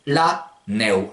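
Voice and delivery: LA NEU slow, gliding "nè-ou"; Provençal pronunciation. Shown as a demonstration. Teacher translating snow, slow Provençal pronunciation. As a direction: slowly model neu as one gliding syllable. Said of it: "comment dit-on la neige?".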